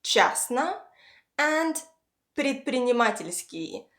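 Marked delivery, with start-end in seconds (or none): 0.0-0.8 частно with stressed "ча", rising at the end. Shown as a demonstration. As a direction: lean on the first syllable of частно. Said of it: "the stress falls on".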